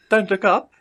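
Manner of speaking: high-pitched put-on Australian voice; Australian accent. Captive to the wizard before the bag drops, mock Australian accent. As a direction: squeak a teasing warning in mock Australian. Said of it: "a little bit of an Australian accent".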